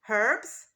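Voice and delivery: herbs with a silent h, said erbs; American herbs. Shown as a demonstration. Teacher models American herbs. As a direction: drop the h in herbs. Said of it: "we say".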